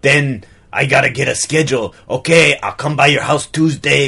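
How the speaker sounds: put-on French-Austrian accent; affected accent. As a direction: artist in a muddled European accent. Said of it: "affect an accent".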